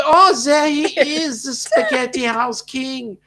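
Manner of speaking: high, bright burst of welcome; light up as a friend arrives; excited greeting. Real, not acted. Host spots Darian joining the live chat, excited.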